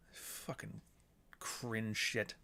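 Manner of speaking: very soft, half-whispered grumble; real under-the-breath contempt; muttered disgust. Real, not acted. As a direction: mutter it to yourself in distaste. Muttering about the book he found.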